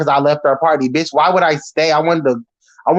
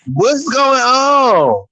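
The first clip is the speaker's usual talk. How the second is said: usual speaking voice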